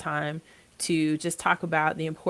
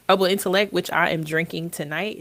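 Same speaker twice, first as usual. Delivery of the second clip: stuffy nose from allergies; congested; 5 dB louder than usual. Real, not acted. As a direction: speak through a blocked nose. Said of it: "If it sounds like I'm congested".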